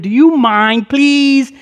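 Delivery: earnest plea, rising on please; pleading. Retold or imitated. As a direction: beg a favor, drawing out please. Pleading with the landowner.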